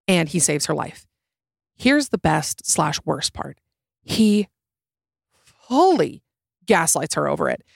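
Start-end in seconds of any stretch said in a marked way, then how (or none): 4.0-6.2 FULLY pitched way up; He fully, said with rising outrage; emphatic. Real, not acted. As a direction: lean hard on fully. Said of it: "not saying that in a hyperbolic way".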